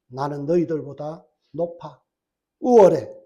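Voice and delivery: low, mostly hushed aside of superiority; smug inner thought. Acted. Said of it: "그러고 나서 마음속에 뭐예요?".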